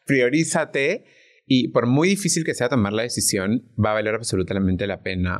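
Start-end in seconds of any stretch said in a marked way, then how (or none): 0.1-1.1 Priorízate said slowly through a laugh; laugh, then stretch out Priorízate; laughing word. Real, not acted. Guest finally finding the word, laughing slowly. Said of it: "ayúdame, por favor".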